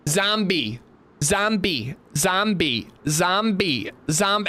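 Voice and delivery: a hint of a little kid naming what she sees; chanting zombie like a small child; toddler voice. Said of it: "toddler voice".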